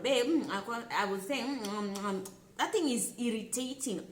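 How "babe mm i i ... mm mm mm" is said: mock full-mouth talk. Wife talking to husband with food in her mouth, mock mumble. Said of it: "maybe I'm talking to my husband".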